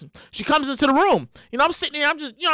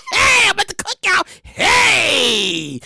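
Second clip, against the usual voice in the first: excited calling out; 7 semitones higher, much slower than usual. Pretend. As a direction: shout it to the whole cookout. Calling out at the cookout.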